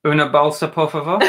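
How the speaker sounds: basic Spanish with an English accent; halting Spanish phrase, amused; attempted Spanish. Shown as a demonstration. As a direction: try a simple Spanish request. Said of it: "I can do a little bit of Spanish".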